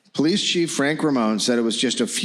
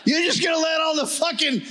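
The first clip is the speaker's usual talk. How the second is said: put-on higher, shouted Fox News rant in a light Boston accent; 12 semitones higher than usual. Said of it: "doing a Boston accent a little bit".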